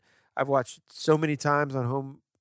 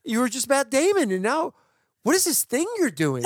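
exasperated disbelief; 10 semitones higher than usual. Retold or imitated. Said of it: "Dude, I'm like".

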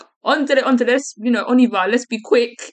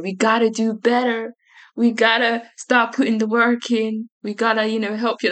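put-on American white girl voice; 4 semitones higher than usual. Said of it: "Was that your American white girl voice?".

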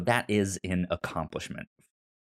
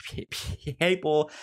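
high, lifted imitation of fans arguing; mock debate voice; 11 semitones higher than usual.

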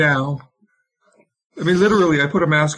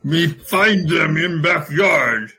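caveman voice; slower than usual. Acted. Caveman-like suitor.

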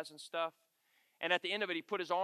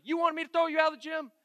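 high, loud mock yell of an angry referee; loud, high retold shout; 10 semitones higher, 7 dB louder than usual. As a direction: bark it up in his face, imitating. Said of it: "He starts yelling at me".

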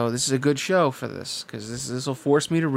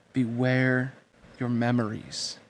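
slow and weighty; slower than usual. Acted. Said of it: "She pronounced the words slowly, giving them weight".

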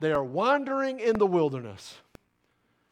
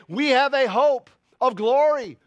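ordinary delivery

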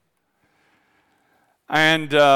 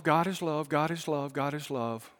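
much softer, trailing off; fading away; 2 semitones lower, 6 dB quieter than usual. Shown as a demonstration. Preacher mocks churches that only say this, fading softly. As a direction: let it fade almost to nothing. Mocking a soft-pedalled gospel.

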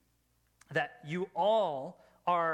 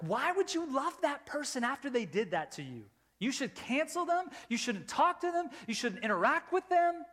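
higher-pitched, incredulous urging; mock disbelief; 6 semitones higher than usual. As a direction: object like a baffled outsider. Voicing the world's objection to forgiving.

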